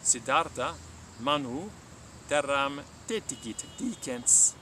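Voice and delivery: measured, clear storytelling read; story narration. A narrator's reading. Latin teacher narrating a Buddha legend to listeners, calm storytelling. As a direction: tell the legend slowly and gravely.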